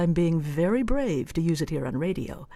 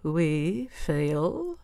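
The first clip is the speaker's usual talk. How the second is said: threatening; 3 dB quieter than usual. Shown as a demonstration.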